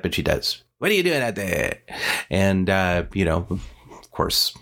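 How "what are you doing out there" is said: hint of a storybook witch; odd character voice. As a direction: imitate her peculiar way of talking. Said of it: "why she talks like that".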